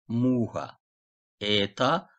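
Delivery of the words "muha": "muha" said "MU-ha"; stress on first syllable. Shown as a demonstration. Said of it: "Vurgu önemli".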